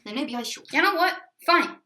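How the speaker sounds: fake Russian accent. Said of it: "fake horrible Russian accent".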